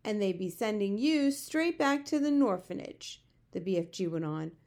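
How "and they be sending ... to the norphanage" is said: louder, higher giant protest; animated giant voice, fretting; storybook giant, worried. A narrator's reading. Giant fears the zoo, worried protest.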